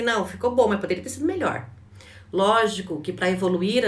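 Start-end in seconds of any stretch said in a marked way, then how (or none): 0.0-1.7 critical boss. Retold or imitated. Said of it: "aquele chefe que fala assim".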